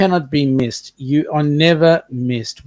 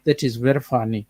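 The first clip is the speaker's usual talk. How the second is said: put-on Zulu-accented English; 2 semitones lower than usual. Shown as a demonstration. Answering praise of the accent act, Zulu accent. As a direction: keep up the mock Zulu accent. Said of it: "I can even talk like a Zulu".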